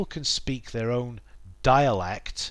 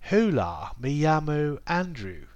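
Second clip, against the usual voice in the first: put-on Spanish said in a very posh English accent; 3 semitones higher than usual. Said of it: "very posh English accent".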